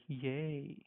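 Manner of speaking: "yay" as a long umlaut vowel; German A umlaut, shown as "yay"; A umlaut sound. Shown as a demonstration. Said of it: "it will be like".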